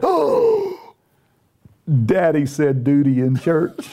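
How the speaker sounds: put-on high gasping child's voice, slow; gasping toddler. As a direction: play the shocked little boy tattling. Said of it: "the speaker said".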